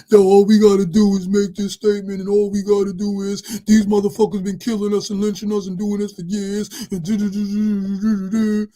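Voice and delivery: mock a fired-up street preacher; ranting activist.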